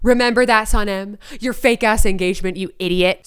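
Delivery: talking while crunching ice. Real, not acted. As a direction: mouth full of crunchy ice. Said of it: "Sorry, I'm crunching on some ice".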